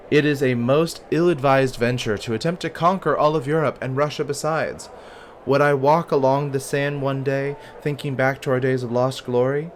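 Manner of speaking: lifted, emphatic narrator's delivery; game story narration. Acted. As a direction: read it grandly as a storyteller. Reading game narration in character.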